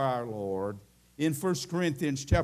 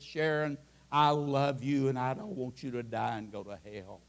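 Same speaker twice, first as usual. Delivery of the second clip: tearful plea; 5 semitones lower, 4 dB quieter than usual. Retold or imitated. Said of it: "with tears flowing down my face, I could hardly speak".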